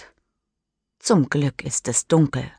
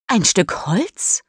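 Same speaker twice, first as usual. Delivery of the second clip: slow, breathless whispered question; 3 semitones higher than usual. Acted. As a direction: whisper it in fearful doubt. Mischa fragt sich, was auftaucht. (geflüstert, ängstlich)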